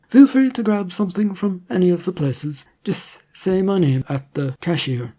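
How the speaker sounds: a hint of a polite official offering food; government agent. Agent speaks in story.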